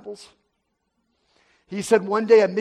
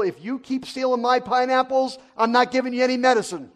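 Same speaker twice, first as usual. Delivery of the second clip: retold angry warning; 4 semitones higher than usual. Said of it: "He was mad".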